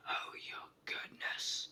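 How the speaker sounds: a hushed mock roar; roaring in a temper. King losing his temper at the brownies, mild whispered roar. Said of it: "roared the King in a temper".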